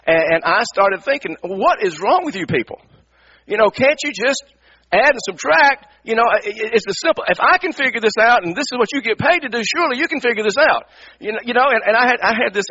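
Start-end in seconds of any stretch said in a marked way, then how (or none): 1.4-10.9 exasperated, talking down, pitched higher; superior attitude. Retold or imitated. Pastor mocking the billing clerks, exasperated and superior. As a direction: scoff at their incompetence. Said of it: "this balcony superior sickness attitude".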